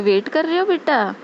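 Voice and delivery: very affectionate. Retold or imitated. Volunteer aunty to devotees waiting for slippers, very affectionate. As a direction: imitate a doting aunty checking on her child. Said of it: "बड़े प्यार से बोलती हैं".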